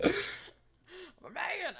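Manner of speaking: slow and laughing through it. Real, not acted. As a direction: laugh out the correction. Laughing correction of pronoun.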